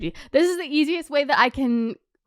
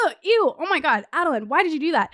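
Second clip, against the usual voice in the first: cringing at yourself; 3 semitones higher, faster than usual. Retold or imitated. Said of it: "you think about the times that you flirted".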